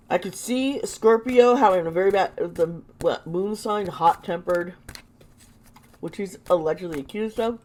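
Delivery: talking around a lozenge; words round a throat lozenge; lozenge in mouth. Real, not acted. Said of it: "lozenge in my mouth".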